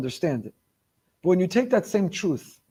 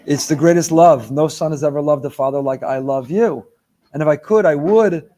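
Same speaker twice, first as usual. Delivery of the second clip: hammed-up devotion; 2 semitones lower, 6 dB louder than usual. Son overdoing his love.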